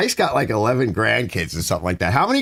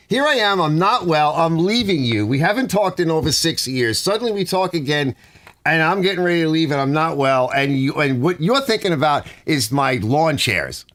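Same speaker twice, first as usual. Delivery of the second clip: mildly raised, higher retold complaint; retold outburst; 6 semitones higher than usual. Replaying his outburst at Elizabeth, mildly indignant. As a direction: replay the indignation, half-acted. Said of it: "I was furious".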